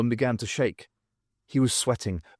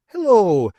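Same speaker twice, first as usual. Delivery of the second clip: loud, high Scots greeting; high-pitched Scottish hello, falling away; Scots accent; 8 semitones higher, 8 dB louder than usual. A narrator's reading. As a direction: hail them brightly in a Scottish accent. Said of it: "he had a distinct Scots accent".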